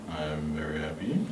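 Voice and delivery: breathy low whisper. Shown as a demonstration. The speaker whispering a happy line for the class. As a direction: hush it down. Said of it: "in a very low tone".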